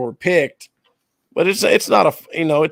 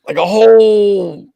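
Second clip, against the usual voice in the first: laughing; 8 semitones higher, 7 dB louder than usual. Real, not acted. Laughing while ranting about search.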